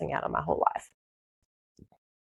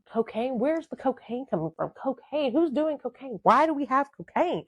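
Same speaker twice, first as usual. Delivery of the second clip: higher-pitched incredulous questions; shocked disbelief; 5 semitones higher than usual. Retold or imitated. Girlfriend reliving her shock at finding out about cocaine, incredulous. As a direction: fire off baffled questions in disbelief.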